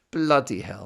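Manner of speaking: loud amazed outburst; exclamation. Real, not acted. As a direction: blurt it out in disbelief. Exclaiming at the lyric.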